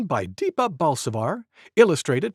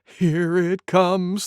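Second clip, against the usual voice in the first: slow anticipation; 3 semitones higher, much slower than usual. Acted. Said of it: "thought Monkey".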